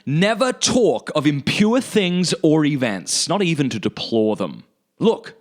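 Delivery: deliberate, emphatic declaimed reading; quotation read aloud. Acted. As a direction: read it out as solemn counsel. Reads out final quotation.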